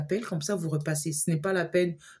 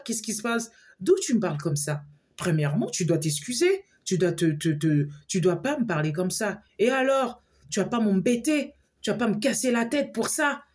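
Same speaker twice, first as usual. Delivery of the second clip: retold telling-off, pitched higher; indignant scolding; 4 semitones higher than usual. Woman telling her friend off for his rudeness, indignant. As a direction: demand an apology, offended.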